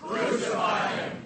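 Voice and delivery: angry thugs shouting; crowd shouting demands. Pretend. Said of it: "like a crowd of angry thugs".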